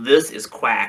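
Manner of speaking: public-service-announcement style announcer delivery. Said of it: "That's a good Pee Wee voice".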